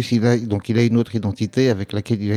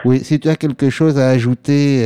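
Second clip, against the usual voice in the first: repeated louder so the caller hears; louder for a bad line; 3 semitones higher, 4 dB louder than usual. Real, not acted. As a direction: raise the voice for a bad phone line. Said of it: "Est-ce que tu peux parler plus fort?".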